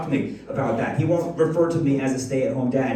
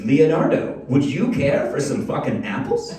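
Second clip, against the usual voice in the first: lightly voiced prim little girl; a hint of a polite child offering; four-year-old daughter; 3 dB louder than usual. Daughter offering apples to baby brother, lightly prim. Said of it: "she turns to him and says".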